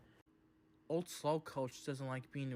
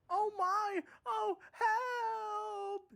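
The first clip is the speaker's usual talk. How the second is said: high, loud panicked wail; runaway coach wailing for help; 3 dB louder, much slower than usual. Acted. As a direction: cry out as she rolls away. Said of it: "she wailed".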